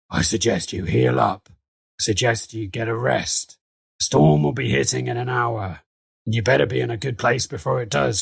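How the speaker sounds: lightly put-on character voice, deliberate; measured warning in a lightly altered voice; Dutch Nuggets. Game master's sailor warns players of the storm, light character voice. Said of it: "Dutch Nuggets is like".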